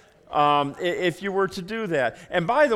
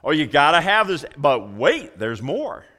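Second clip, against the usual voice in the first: mock TV pitchman; 2 semitones lower, 4 dB louder than usual. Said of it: "sales type stuff".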